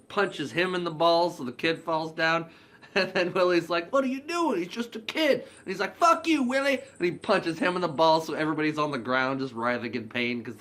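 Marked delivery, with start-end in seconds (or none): 3.9-5.4 high, loud mock outrage; outraged protest. Willie protesting the kid being punched, outraged shout. 6.0-6.8 loud, high-pitched mock fury; angry retort. Marcus hitting back at Willie, angry yell. Retold angry reply in fight.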